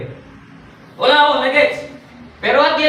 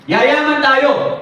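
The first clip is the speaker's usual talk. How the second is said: hyped announcer; 7 semitones higher, much slower than usual. Retold or imitated. Speaker hyping the seminar crowd.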